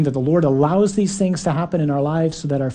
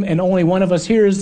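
normal talking voice

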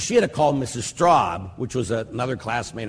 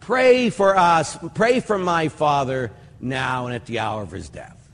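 retold prayer. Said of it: "as I said the second part".

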